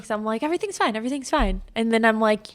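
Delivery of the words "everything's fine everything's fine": higher, lightly singled-out brush-off; imitating your own breezy denial; mock reassurance. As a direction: insist it lightly, pitched up. Acting out own false reassurance.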